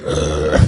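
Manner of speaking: low, strained "uh"; tensed-up grunt, imitating suppressed fear; tense groan. Speaker mimics adults hiding their fear, tense grunt. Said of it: "make this tension in their face".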